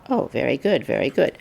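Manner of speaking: imitating a wary teacher placating someone; humoring. Lowell humoring a terrifying student, placating. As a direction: appease them, voice dropping on the repeat. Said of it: "Humoring her because she was kind of terrifying".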